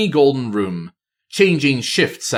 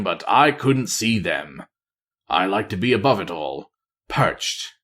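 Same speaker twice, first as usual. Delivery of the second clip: lightly voiced lonely spy. Voices Matthias confessing loneliness.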